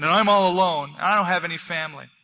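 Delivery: a small bunny pleading that he is alone; lonely bunny. A narrator's reading. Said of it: "said Barrington".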